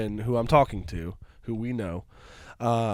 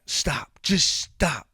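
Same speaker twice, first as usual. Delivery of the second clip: higher, emphatic mock protest; retold exasperation; 6 semitones higher, 4 dB louder, much slower than usual. Storyteller imitating woman confronting the wife, exasperated. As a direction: act out an upset woman cutting someone off. Retold quarrel between two women.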